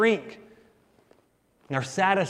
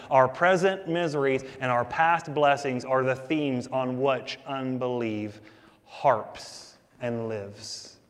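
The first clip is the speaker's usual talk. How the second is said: slowing down and dropping at the end; slow, weighty restatement for the congregation; slow emphatic repeat; 3 semitones lower, slower than usual. Shown as a demonstration. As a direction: lean on it the second time, slower. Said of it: "I'm gonna say that again".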